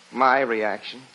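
low-pitched, offhand question; feigned modesty. Acted. Husband coaxing the reporter to insist, falsely modest. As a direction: play it down as if reluctant.

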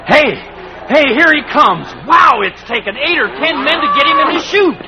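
yelling over the rodeo crowd; excited shout. Acted. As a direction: call it out, thrilled. Crowd sees bull coming.

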